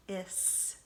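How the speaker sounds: "th-" breathed out before "is"; digraph sounded out. Shown as a demonstration. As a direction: sound out "th" softly, then "is". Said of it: "we can sound it out".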